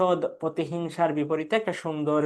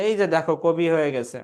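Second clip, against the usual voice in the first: light mock admiration. Teacher imitates friends ridiculing a would-be poet, lightly mocking. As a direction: tease someone posing as a poet. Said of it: "উপহাস করছি".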